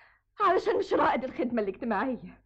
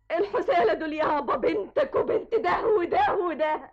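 angry outburst; 5 semitones higher than usual. Acted. Daughter shouting at her father, angry. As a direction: throw it in his face.

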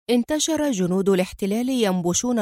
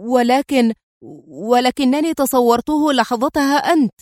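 panicked; 3 semitones higher than usual. Acted. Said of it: "استدرك الجندي في ذعر".

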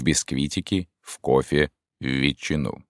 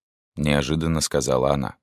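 plain reading voice

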